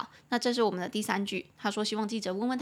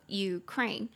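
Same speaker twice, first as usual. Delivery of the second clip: Ukraine slowly, stress on KRAINE; stress on second syllable. Shown as a demonstration. Teacher showing where Ukraine is stressed, slow with weight on KRAINE. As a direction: lean on the final syllable of Ukraine. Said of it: "中音节在后".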